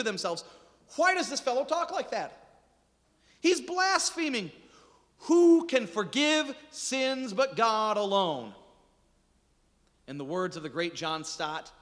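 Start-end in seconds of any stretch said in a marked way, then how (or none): 1.0-8.5 higher, slow, scandalised teachers of the law; indignant scribes. Acted. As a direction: sound shocked and self-righteous.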